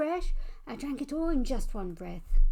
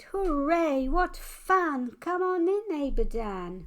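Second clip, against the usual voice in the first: high, loud happy cheer; a thrilled child welcoming a treat; delighted cheer; 6 semitones higher, 6 dB louder, slower than usual. Acted. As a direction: greet the neighbor with glee. Child greets neighbor with chocolate.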